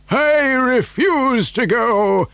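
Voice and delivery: high, slow put-on old voice; old man's announcement. A narrator's reading. Grandfather refusing to ride in the lift, declaimed. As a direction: declare the refusal, stretching each word. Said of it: "announced Grandpa George".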